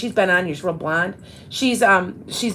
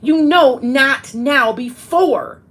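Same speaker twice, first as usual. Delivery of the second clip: mildly imitating an annoyed toddler; 4 semitones higher, 3 dB louder, slower than usual. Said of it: "she got mad at me".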